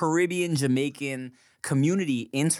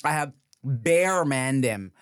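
put-on Toronto accent. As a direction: stretch the slang in a Toronto accent. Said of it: "I'm talking about Toronto".

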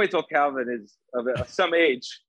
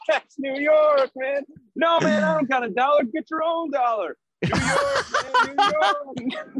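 hammed-up New Yorker; 12 semitones higher than usual. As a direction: yell it like a cartoon street hustler. Hammed-up New Yorker street bit.

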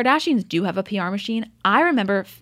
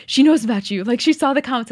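higher, louder mock urgency; excited mock alarm; 4 semitones higher, 6 dB louder than usual. Fan warning the hosts, mock urgent. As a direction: sound the alarm in jest. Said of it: "she's like".

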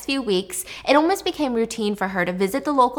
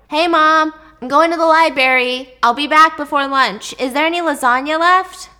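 put-on bright, higher teen voice, louder; cheerful teen daughter; 5 semitones higher, 7 dB louder than usual. Daughter calls to mom on her way out, cheerful teen voice. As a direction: play the upbeat daughter heading out.

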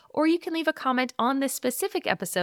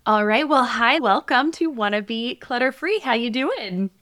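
upbeat host welcome, a bit louder; podcast voice; 4 dB louder than usual. Real, not acted. Mom opening the show to interview her daughter, podcast voice. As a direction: greet a guest like a podcast host. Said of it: "talking to you in my podcast voice".

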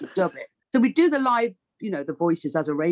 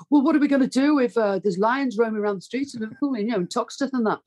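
worried councillor; 5 semitones higher, faster than usual. Retold or imitated. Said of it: "somebody said".

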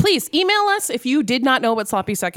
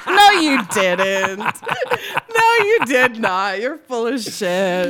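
disbelief; much slower than usual. Real, not acted. Disbelief at the text.

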